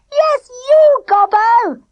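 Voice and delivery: high, loud gleeful yell; boy yelling at his friend. A narrator's reading. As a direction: yell it across to him. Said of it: "he yelled".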